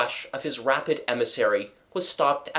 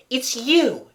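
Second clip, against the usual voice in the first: sudden high, loud outcry of recognition; feverish cry; 12 semitones higher, 5 dB louder than usual. A narrator's reading. Raoul recognizing the stranger in the corridor, a feverish cry. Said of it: "he cried in a feverish voice".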